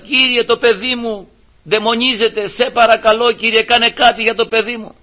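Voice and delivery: a mother crying out for her child, mildly acted. Syrophoenician woman begging Christ for her daughter, pleading cry. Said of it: "φώναζε".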